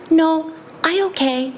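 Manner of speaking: put-on high, slow little girl voice; a small child answering slowly; toddler voice.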